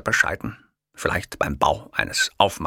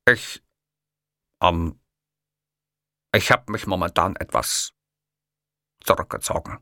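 cautious. A narrator's reading. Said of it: "umschrieb ich vorsichtig meine Lage".

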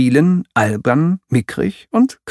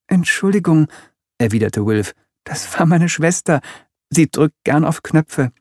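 lightly voiced polite boy, higher; young boy Wilf; 6 semitones higher than usual. Wilf apologising for his sister, lightly higher boyish voice. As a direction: apologise like a well-mannered little boy.

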